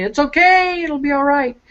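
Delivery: high, lifted voice of God reassuring; mock heavenly reassurance; imagined booming God. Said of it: "he's gonna say".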